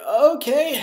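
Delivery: high, rising okay; mock-nervous consent; uneasy agreement.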